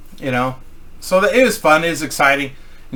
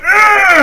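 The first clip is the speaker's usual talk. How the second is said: loud, high straining yell as he heaves something heavy; big effortful lifting roar; strained shout; 7 dB louder than usual. Retold or imitated. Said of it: "and he's like".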